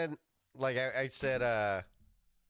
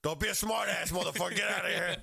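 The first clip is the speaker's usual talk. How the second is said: higher, louder mock telling-off with a laugh behind it; mock angry dismissal; 8 semitones higher, 5 dB louder than usual. Officer to driver asking for his dollar, mock-angry outburst. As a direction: send him packing, half laughing. Acted comeback to cheeky driver.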